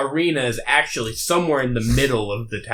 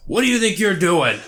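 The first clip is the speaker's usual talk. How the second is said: stern guard; 6 semitones higher, faster than usual. Acted. Guard catches player grabbing keys.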